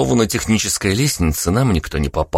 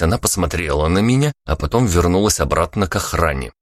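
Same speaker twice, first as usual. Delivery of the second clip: ordinary delivery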